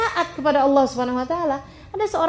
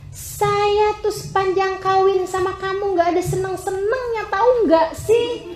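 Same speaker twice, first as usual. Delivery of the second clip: annoyed wife; 4 semitones higher than usual. Acted. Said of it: "ketika kesel sama suami kamu".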